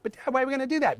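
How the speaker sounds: put-on high whiny kid voice; Stan voice. Voice actor switching roles fast, high kid voice. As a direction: play the son pleading with dad. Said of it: "I'm literally still just going".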